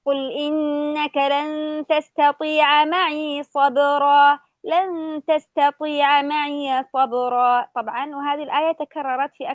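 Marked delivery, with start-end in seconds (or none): 0.1-7.6 slow melodic tajweed chant; Quran recitation. Shown as a demonstration. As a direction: stretch the vowels, recite reverently. (تلاوة مرتلة بطيئة)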